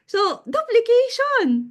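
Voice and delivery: duplication drawn out slowly and pitched high; emphatic. Real, not acted. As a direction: lean hard on the word duplication as the big point. Stressing the key lesson word.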